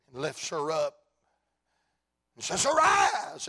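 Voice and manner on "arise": high, loud ringing command; Jesus. Acted. Jesus lifting the little girl, loud command. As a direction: call it out to raise someone up.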